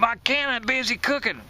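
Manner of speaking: a hint of screaming back; mild mock scream. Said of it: "she screams back at him".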